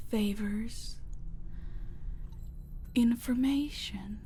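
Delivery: sly, suggestive whisper; tempting whisper. Acted. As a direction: tempt her with the offer. Villain listing prices.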